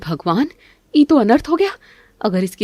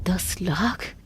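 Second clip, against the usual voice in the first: envious whisper to herself; 11 dB quieter, much slower than usual. Acted. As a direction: breathe the number greedily. Muttering to herself in envy. (जलन में फुसफुसाना)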